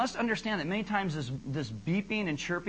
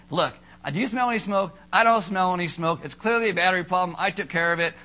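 louder, dismissive macho reasoning; very manlike; 5 dB louder than usual. Retold or imitated. Husband dismissing wife's fire worry, mock macho. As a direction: brush her off like a typical dude. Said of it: "very manlike".

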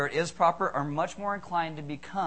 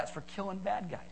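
put-on little boy; 8 dB quieter than usual. Voicing boy answering video store clerk.

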